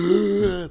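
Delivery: loud, high gasp; big gasp acting out the film moment; imitated gasp. Telling a friend how he enters the room, loud imitated gasp.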